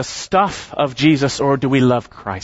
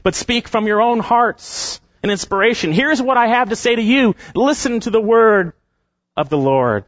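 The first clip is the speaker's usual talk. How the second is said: voicing God; 3 semitones higher than usual. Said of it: "He's saying".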